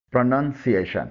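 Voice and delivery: پروننسیشن said "pruh-nun-see-AY-shun"; weak "pruh" opening پروننسیشن; correct pronunciation. Shown as a demonstration. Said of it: "مکمل درست تلفظ ہے".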